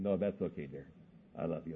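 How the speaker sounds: a hint of a loving father at bedtime; tender reassurance. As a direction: gently let the child off, lightly acted.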